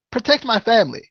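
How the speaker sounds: put-on faint, half-hearted try at a quirky wrestling-promo accent; barely imitating an odd wrestler's promo accent, then giving up; Matt Hardy accent. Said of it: "I can't even do the accent anymore".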